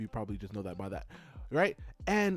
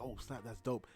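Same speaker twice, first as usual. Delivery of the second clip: understated, softer awe; soft, contained appreciation; quiet reaction; 2 semitones lower, 7 dB quieter than usual. Retold or imitated. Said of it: "I'm really silent with it".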